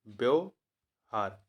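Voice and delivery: व्यवहार said slowly, stretched out; slow dictation. Shown as a demonstration. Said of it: "व्यवहार होता है".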